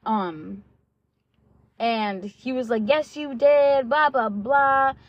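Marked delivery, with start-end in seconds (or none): 2.9-4.9 louder, higher, drawn-out mock yell; mock screaming. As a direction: imitate his screamed accusation, stretching it out. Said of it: "he was just screaming".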